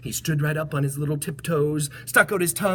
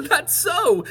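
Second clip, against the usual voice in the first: high, louder laughing line; laughing elephant; 14 semitones higher, 5 dB louder than usual. Acted. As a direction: laugh the words out. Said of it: "laughed the elephant".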